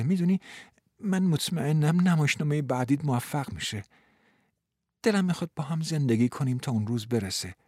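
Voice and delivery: gently comforting woman. Acted. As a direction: reassure him softly.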